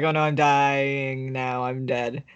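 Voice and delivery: slow, drawn-out fake death; mock dying mother. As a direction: play a lightly hammed deathbed line, trailing away. Voices dying mother, mock melodrama.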